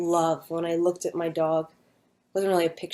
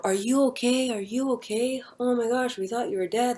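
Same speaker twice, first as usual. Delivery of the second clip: concerned bystanders; 5 semitones higher than usual. Retold or imitated. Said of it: "all these people are".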